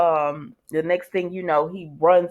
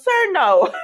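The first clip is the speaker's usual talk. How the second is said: much higher, louder mock answer; a hammed-up high, louder sir, no; mock reply; 14 semitones higher, 6 dB louder than usual. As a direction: squeak it out as a joke. Mocking Brady's silence, then laughs.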